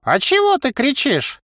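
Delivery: high-pitched puzzled question; surprised. A narrator's reading. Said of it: "удивились одновременно и голос, и тренер". (удивлённо, высоким голосом)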